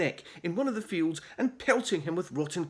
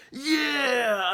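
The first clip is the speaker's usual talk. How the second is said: yell; 8 semitones higher, 4 dB louder than usual. A narrator's reading. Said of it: "another cut in".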